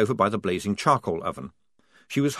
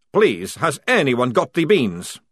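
louder, slow begging; slow pleading; 5 semitones higher, 6 dB louder, slower than usual. A narrator's reading. Maledict begging the squad, slow and pleading. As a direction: plead for the beans.

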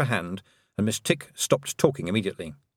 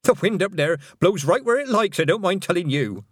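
put-on louder, chatty old country woman; a jolly granny grumbling merrily; cheerful old witch; 8 semitones higher, 4 dB louder than usual. Missus Ogg, cheerful old witch.

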